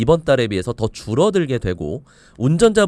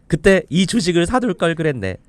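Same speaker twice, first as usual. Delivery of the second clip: higher-pitched put-on lament; mock regret; 5 semitones higher than usual. Expert voicing an investor who missed the shares, mock regret. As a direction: act out kicking yourself, pitch raised. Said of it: "라고 후회하실 때가 있죠".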